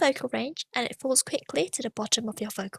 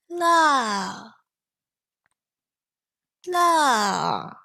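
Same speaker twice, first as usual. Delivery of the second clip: falling tone la; 4 dB louder than usual. Shown as a demonstration. Teacher giving the falling la to repeat. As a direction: drop the la down sharply. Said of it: "let's try again".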